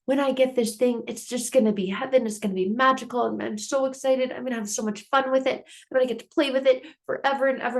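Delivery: put-on high, fast, breathless excited child voice; excited kid. Kid imagining the toy he wants, high excited child voice. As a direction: gush like a kid dreaming of a new toy. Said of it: "they're thinking".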